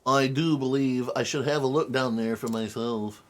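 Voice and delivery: haughty, self-important detective; pompous voice. Acted. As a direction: read it like a snooty gentleman sleuth. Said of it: "I wanna slap myself with that pompous voice".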